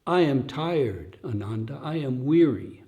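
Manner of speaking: put-on weary old Buddha. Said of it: "He speaks like this".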